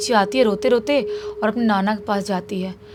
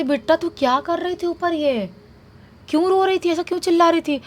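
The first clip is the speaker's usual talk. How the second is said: worried grandpa; 7 semitones higher than usual. Retold or imitated. Grandpa questioning worried child.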